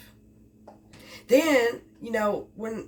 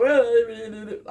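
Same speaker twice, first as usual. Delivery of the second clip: imitating a little choked-up sob; mock catch in the throat, louder; 5 dB louder than usual. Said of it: "I didn't want her to hear me go".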